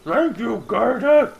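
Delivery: high mock Swedish accent. Suspect thanking the Garda, fake Swedish accent. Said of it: "That's my Swedish accent".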